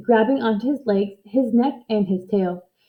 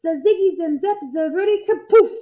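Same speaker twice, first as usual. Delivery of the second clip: high, loud witch chanting a spell; exploding spell; 9 semitones higher, 3 dB louder than usual. A narrator's reading. Angry little witch casting a spell, loud and high. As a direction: hurl each magic word. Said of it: "the angry little witch exploded".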